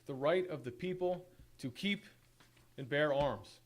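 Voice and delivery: measured, solemn reading of a resolution; formal proclamation. Acted. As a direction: read it like an official declaration. Reads a formal resolution aloud.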